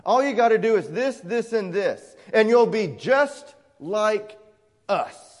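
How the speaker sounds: quick, dismissive mock of a false teacher; lightly mocking, glib and hurried. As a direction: rattle it off like a smug salesman. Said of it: "They tell you".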